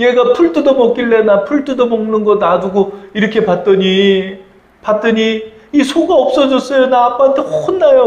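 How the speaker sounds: high, desperate, tearful pleading in put-on crying boy voice. Retelling a missionary's story, voicing a Mongolian boy, imitating a crying boy. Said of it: "막 울면서 몽골 소년이 왔더래요".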